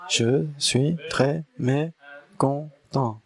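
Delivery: a hungry one in the box, syllable by syllable; slow grumbling voice from the box. Acted. Person hidden in the box answers, slowly and sulkily.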